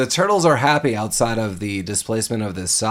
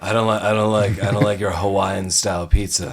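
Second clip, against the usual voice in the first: Jack Palance; 4 dB louder than usual. Pretend. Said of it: "Jack Palance was the voice of Splinter".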